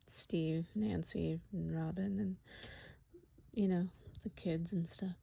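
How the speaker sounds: soft unvoiced whisper of names. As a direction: breathe the names softly.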